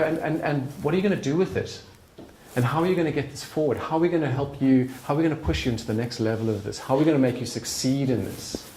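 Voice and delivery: quick, keen coaxing questions; rally them forward with energy; eager push. Retold or imitated. Friends pushing me forward, eager questions. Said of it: "And they go".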